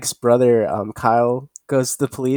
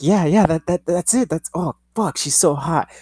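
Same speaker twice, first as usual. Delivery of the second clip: leering cops; 5 semitones higher than usual. Retold or imitated. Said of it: "They're like".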